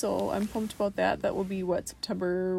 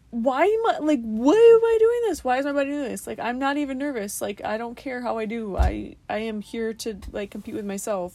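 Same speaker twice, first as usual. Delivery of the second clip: panicking at yourself; frantic inner voice; 2 semitones higher, 5 dB louder than usual. Retold or imitated. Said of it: "I'm like".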